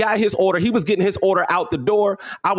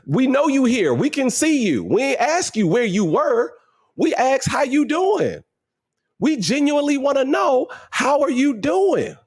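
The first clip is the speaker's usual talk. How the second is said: higher, building exasperation; exasperated rant; 7 semitones higher than usual. Real, not acted. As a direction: push it up in disbelief. Exasperated rant at such people.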